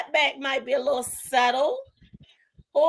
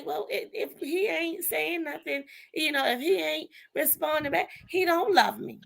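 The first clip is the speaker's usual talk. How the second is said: quoted complaint; 2 semitones higher, 6 dB quieter than usual. Retold or imitated. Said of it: "one would say".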